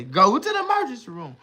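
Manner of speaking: high, loud yelled order; urgent body's command. Acted. His body ordering him to hospital, high urgent yell. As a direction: yell it out as an alarm from inside. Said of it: "my body tell me, say".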